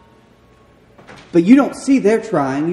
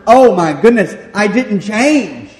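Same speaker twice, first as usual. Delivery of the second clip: higher, louder cry of dismay; dismayed realization; 5 semitones higher, 6 dB louder than usual. Acted. The people finally suffering the consequences, dismayed. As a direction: voice the stunned regret, drawing out the end.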